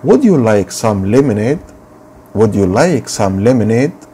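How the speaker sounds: slow repeated model sentence; slow teacher drill. Shown as a demonstration. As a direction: read it slowly for pupils to repeat. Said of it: "teacher drills sentence".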